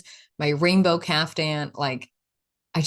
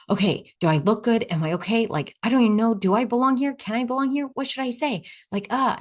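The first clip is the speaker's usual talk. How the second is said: anxious inner voice; 5 semitones higher than usual. Retold or imitated. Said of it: "Another part is like".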